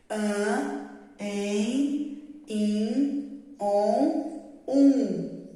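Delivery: "An, em, in, on, um" each drawn out slowly through the nose; nasal vowels. Shown as a demonstration. Teacher demonstrating nasal vowels to second graders, slow and nasal. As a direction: sound each vowel "An", "em", "in", "on", "um" fully nasal, one by one. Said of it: "vamos ler de novo".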